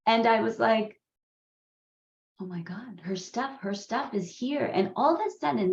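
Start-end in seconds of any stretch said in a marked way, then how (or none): 2.4-4.6 hushed start, mildly mock-upset; retold upset drama. Woman recalling receiving her crystals, mildly dramatic upset. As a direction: quote your own rising distress, starting softly. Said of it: "this level of drama kicked in".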